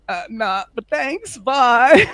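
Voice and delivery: retold hurried escape, breaking into laughter; awkward brush-off. Parent and Daniel deny being partners, awkward brush-off.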